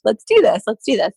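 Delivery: fired-up self-talk; mock pumped chant. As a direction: psych yourself up for the race. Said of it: "Now I'm pumped".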